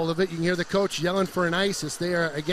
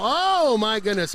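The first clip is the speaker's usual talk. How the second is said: sharp rising oh; surprised; 3 semitones higher, 4 dB louder, slower than usual. Real, not acted. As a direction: caught off guard by the play. Exciting play during hockey call.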